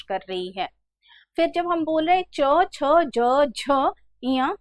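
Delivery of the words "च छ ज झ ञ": च, छ, ज, झ, ञ with tongue touching the palate; palatal consonant demo. Shown as a demonstration. Teacher showing students where the tongue touches, palatal consonant demo. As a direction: sound out च, छ, ज, झ, ञ one by one, tongue just behind the teeth. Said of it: "जीभ है वो तालू को स्पर्श कर रही है".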